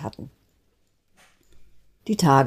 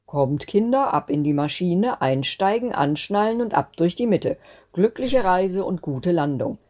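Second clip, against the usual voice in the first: higher, lightly voiced directing grandfather; 3 semitones higher than usual. Grandfather herding the snowflake children aboard, lightly voiced. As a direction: hurry the children aboard, a touch bossy. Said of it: "dirigierte der Großvater".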